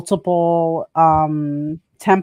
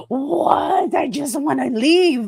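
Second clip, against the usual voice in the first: mock whine; 6 semitones higher, slower than usual. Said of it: "And he's like".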